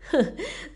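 a high sneering laugh; scornful laugh. A narrator's reading. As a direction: laugh at them. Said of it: "Hắn cười khẩy".

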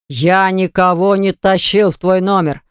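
offended, spelling it out; wrongly accused brother, mildly indignant. Acted. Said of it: "возмутился Баграт".

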